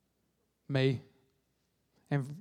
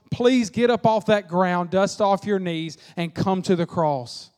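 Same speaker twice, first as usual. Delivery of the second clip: loving plea; slower than usual. Real, not acted. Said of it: "saying it as loving as possible".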